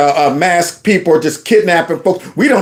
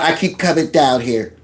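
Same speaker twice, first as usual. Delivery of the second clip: mock nasal voice; 3 semitones lower, 4 dB quieter than usual. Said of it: "talking about".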